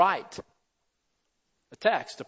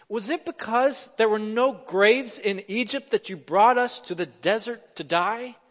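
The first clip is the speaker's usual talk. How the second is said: lightly sarcastic question, pitched a little high; 4 semitones higher than usual. Acted. Terrified Israelites question Moses in the desert, sarcastic. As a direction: ask it with pointed sarcasm. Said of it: "You gotta hear the sarcasm in this question".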